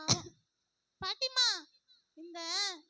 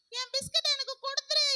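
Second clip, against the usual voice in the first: demanding the biscuit back, louder; angry demand; 3 semitones higher, 5 dB louder than usual. Acted. Sister demanding her biscuit back angrily. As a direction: insist hard.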